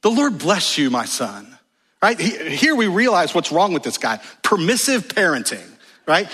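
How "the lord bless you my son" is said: mock-sweet mother. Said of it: "that's how she replies".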